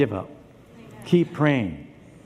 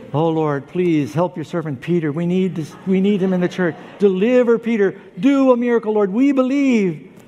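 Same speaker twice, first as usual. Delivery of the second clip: fervent prayer; 4 semitones higher, 5 dB louder than usual. Acted. Church members praying for Peter.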